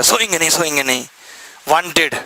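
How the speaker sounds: lightly mimicked filmi hero line; a hint of a swaggering movie star; film hero dialogue. Teacher half-imitating a film hero for the class, mild filmi swagger. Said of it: "ऐसे बोलता है ना, वो कौन सी picture है".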